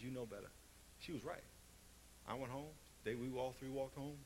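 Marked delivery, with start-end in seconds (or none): 0.0-0.5 quiet stern mother. Retold or imitated. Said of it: "she looked at me and says".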